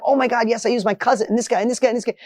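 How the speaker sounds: fast, eager retelling of a client on fire; imitating an excited client, words tumbling out fast; excited rush. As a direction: rattle it off quickly like a man lit up by his own idea. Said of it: "And he's on fire".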